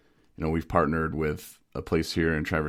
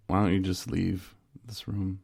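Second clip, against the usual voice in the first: softly polite request; the nice way it was not said; polite retelling of a rude line; polite version; 6 dB quieter than usual. Retold or imitated. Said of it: "I didn't say it like that".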